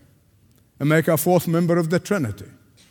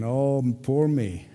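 mock self-pity; 5 semitones lower, 4 dB quieter, slower than usual. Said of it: "the problem of self-pity".

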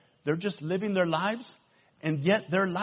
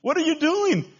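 higher, louder mocking crowd voice; heckling fish; 6 semitones higher, 5 dB louder than usual. Other fish jeer at the salmon swimming upstream, acted heckling. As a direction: call out in disbelief, as a heckler. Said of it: "rest of the fish, if they can talk, are saying".

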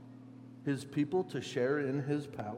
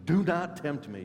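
forceful retort, pitched up; Gandalf; 4 semitones higher, 4 dB louder than usual. Acted. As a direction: fire back a stern warning. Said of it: "Gandalf fires back at him".

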